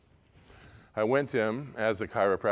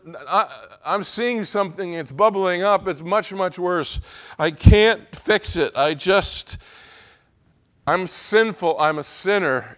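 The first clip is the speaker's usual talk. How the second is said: loud, high-pitched confession; desperate acted plea, voice raised; crying out to God; 8 semitones higher, 8 dB louder than usual. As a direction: pour out an overwhelmed sinner's cry. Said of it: "We cry out to God".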